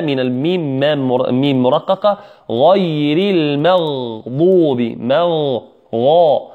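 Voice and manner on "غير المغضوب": غير المغضوب drawn out with heavy غ and ض; careful teaching recitation; slow tajweed demo. Shown as a demonstration. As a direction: slowly model غير المغضوب for the class. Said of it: "الغاء مفخمة والضاد مفخمة".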